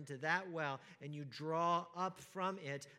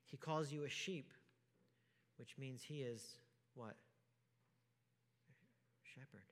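usual speaking voice

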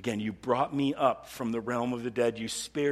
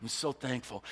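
soft grateful sigh; 3 semitones lower, 5 dB quieter than usual. Retold or imitated. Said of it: "it was just like".

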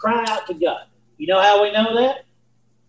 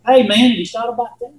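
higher-pitched, casual tempter's voice; tempting enemy; 5 semitones higher than usual. Acted. Enemy sidling up to a pondering mind, lightly voiced tempter. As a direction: slip the doubt in, lightly voiced and high. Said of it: "the enemy comes in".

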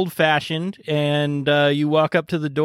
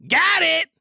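excited win; 14 semitones higher than usual. Retold or imitated. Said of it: "you hear someone go".

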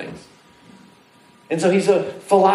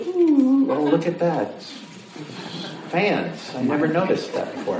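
distracted wonder; 3 semitones higher, 3 dB quieter than usual. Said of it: "'cause their brain goes".

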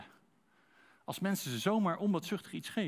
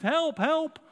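cry for help; 12 semitones higher, 7 dB louder than usual. Retold or imitated. Drowning man calling from water.

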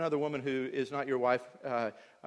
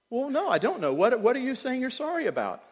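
higher, louder exasperated demand; exasperated retort; 11 semitones higher, 7 dB louder than usual. Retold or imitated. Husband pressing wife about her vague apology, exasperated and higher. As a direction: push back, fed up with a vague apology.

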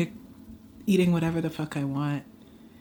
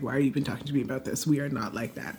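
quick, incredulous retort; dismissive and fast; mock exasperated; 4 semitones lower, 6 dB quieter, faster than usual. Imitating herself brushing off a friend asking advice. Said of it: "sometimes I'm like".

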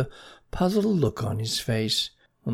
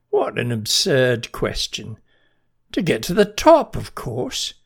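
tiny marching ant; 5 dB louder than usual. Acted. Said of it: "said the ant".

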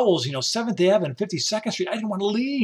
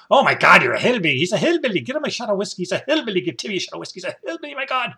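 a loud, hammed-up teasing bartender, climbing higher; 5 semitones higher, 3 dB louder, faster than usual. The bartender teasing Tim as a hillbilly, hammed up and climbing. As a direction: rib the new guy, getting higher as it goes. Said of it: "would call me the hillbilly".

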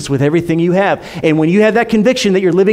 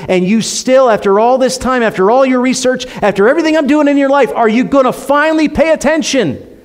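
higher, insistent build to a challenge; God calling out; 6 semitones higher than usual. Acted. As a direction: pile it up urgently, as God demanding attention. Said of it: "God was calling out to me".

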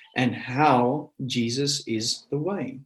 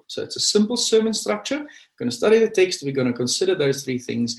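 a hint of the sat-nav voice, higher; lightly voiced GPS lady; 6 semitones higher than usual. Preacher recapping the sermon route, lightly in the GPS voice. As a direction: echo the map lady while recapping.

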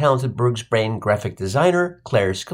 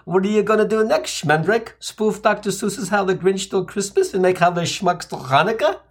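sharp, raised scolding mom; snapping mother; 4 semitones higher than usual. Retold or imitated. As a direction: snap at him like an offended mother. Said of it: "she snapped".

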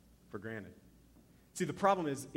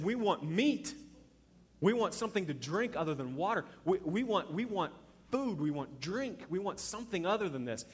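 insistent mock demands, higher on key words; 4 semitones higher than usual. Hungry Israelites pressing Moses for meat and drink, mock demanding. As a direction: imitate a clamouring, complaining crowd.

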